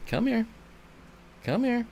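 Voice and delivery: high, soft you're so needy cooed at the dog. Real, not acted. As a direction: coo at the needy puppy. Calling pet.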